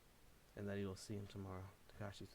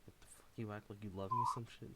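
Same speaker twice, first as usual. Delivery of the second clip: raised, hurt protest rising to a shout; yells; 19 dB louder than usual. Acted. Takashi yelling at Davey while defending himself. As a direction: argue back, getting louder. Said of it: "Takashi yells".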